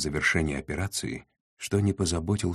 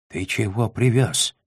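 higher, drawn-out indignant demand; exasperated outburst; 6 semitones higher, 3 dB louder than usual. A narrator's reading. Trader losing control at the man who delivered it, indignant. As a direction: lose patience, stretching the words out slowly. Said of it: "не сдержался Урбек".

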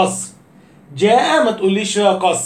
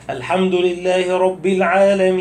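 overlong imam recitation. Retold or imitated. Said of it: "مش هيفضل يقول كده".

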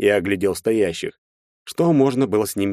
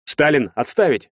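loud, high barked command; barked order; 7 semitones higher, 3 dB louder than usual. A narrator's reading. Officer orders Shtalin to stop, barking. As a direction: bark the order to stand down. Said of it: "рявкнул я".

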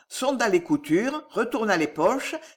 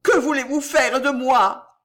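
terrified plea; 6 semitones higher, 5 dB louder than usual. A narrator's reading. Terrified nephew.

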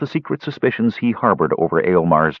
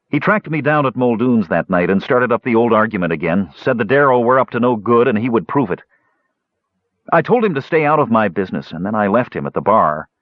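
slightly agitated, higher-pitched retelling; upset young dwarf; 4 semitones higher than usual. Acted. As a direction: recount the quarrel with mild grievance. Basalt recounts the last fight.

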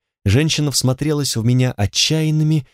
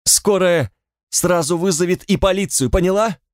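higher, anxious pleading; a scared man begs his friend not to call, higher; nervous; 7 semitones higher than usual. Acted. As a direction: persuade her, scared of police. Frightened friend argues.

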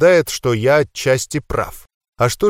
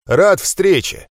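slow, drawn-out polite greeting; higher, dragged-out formality with little keenness; without enthusiasm; 6 semitones higher, 3 dB louder, much slower than usual. A narrator's reading. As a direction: say the pleasantry slowly, not meaning it. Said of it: "добавил без энтузиазма".

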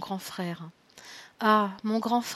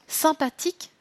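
incredulous; 6 semitones higher than usual. Acted. Incredulous repeat of brother's word.

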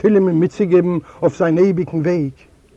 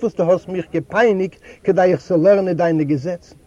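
raised, higher rebuke from the pulpit; the rebbe rebuking the proud man, raised and higher; stern rebbe; 4 semitones higher, 4 dB louder than usual. A narrator's reading. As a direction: scold him like a righteous rebbe lecturing a rich man.

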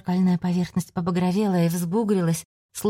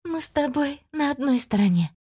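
eerie confident voice; 9 semitones higher than usual. Acted. Melis announces herself.

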